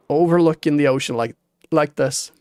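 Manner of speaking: talking through hiccups; words broken by hiccups; hiccuping. Real, not acted. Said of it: "I'm hiccuping".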